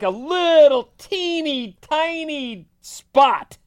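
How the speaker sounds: high, slow little cartoon voice; a squeaky cartoon character, slowed down. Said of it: "That's a cartoon voice".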